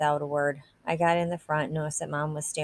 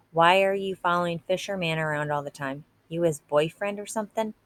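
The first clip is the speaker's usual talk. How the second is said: pushier, a little louder taunt; a bit louder. Acted. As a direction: press harder, voice raised a notch. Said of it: "His voice got a little louder".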